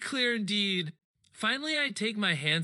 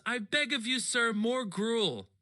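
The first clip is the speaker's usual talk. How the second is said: slow, hammed-up plea for more; begging orphan; 4 semitones higher, slower than usual. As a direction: stretch out a mock orphan's begging. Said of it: "he always goes".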